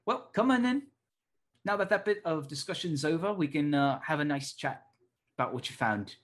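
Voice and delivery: a cranky professor waving the students in; gruff Tucker. Acted. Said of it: "you hear Tucker say".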